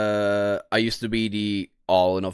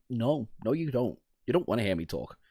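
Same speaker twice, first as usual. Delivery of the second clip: hushed, much softer everyday voice; soft put-on voice; 6 dB quieter than usual. Shown as a demonstration. Answering TikTok comments in a soft, quiet put-on voice. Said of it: "You don't wanna hear my real voice".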